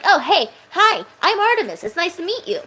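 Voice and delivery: high bubbly character voice; friendly Artemis voice. Shown as a demonstration. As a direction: greet a stranger gently and sweetly. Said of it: "when I talk like this".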